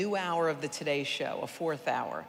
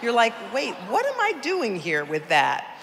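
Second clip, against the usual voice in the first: higher and louder, bursting out; excited aside; 7 semitones higher, 7 dB louder than usual. Real, not acted. Speaker tells the audience how life snaps into focus, excited. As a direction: let it burst out, wide-eyed.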